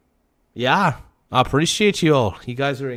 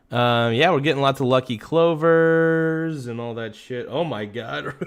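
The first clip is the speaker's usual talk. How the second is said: usual speaking voice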